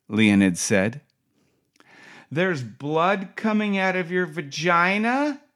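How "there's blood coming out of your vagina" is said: nurse repeating herself through the glass, high and rising. Retold or imitated. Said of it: "said the nurse again".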